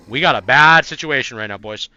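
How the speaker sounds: urgent alarm. Real, not acted. Alarm at a bad game moment.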